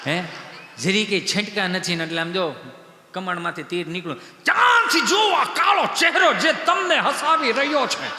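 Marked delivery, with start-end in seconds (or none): 4.4-8.1 high, slow, ringing proclamation; declaiming shout. Acted. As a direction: thunder it like a stage warning. Declaiming a warning to audience.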